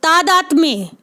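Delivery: "तादात्म्य" as taa-daat-mye; careful falling "तादात्म्य", both a's long; correct pronunciation. Shown as a demonstration. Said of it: "ऐसे पढ़ें इसको".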